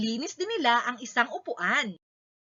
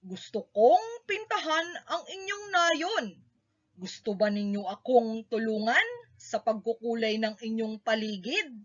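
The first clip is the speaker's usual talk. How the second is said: softer, friendly asking voice; painter inviting; 3 semitones lower, 5 dB quieter than usual. A narrator's reading. Painter asking the villagers to help, soft and friendly. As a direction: gently invite them to help. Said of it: "sabi ng lalaki".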